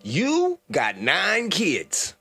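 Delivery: slow, high disbelief; incredulous. Real, not acted. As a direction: drag it out in shock. Incredulous repeat of caller.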